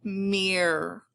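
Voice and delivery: MERE held long on the "ear" sound; stretched ear sound. Shown as a demonstration. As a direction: draw out "Mere" by itself. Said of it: "making that ear sound".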